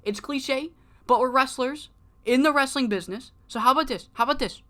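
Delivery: high, put-on lovesick wrestler voice; Heartbreaker's voice. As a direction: plead like a hammy heartsick heel. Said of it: "And he's like".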